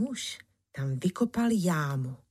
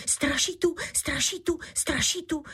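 panicked cry; 10 semitones higher than usual. A narrator's reading. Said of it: "zvolal jiný loupežník".

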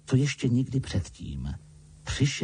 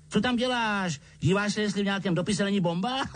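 high, fast, laughing at his own joke; mocking joke; 11 semitones higher than usual. A narrator's reading. Uncle mocks Harry over the letter, chuckling. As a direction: tease him, half laughing. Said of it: "sám se svému vlastnímu žertu zachechtal".

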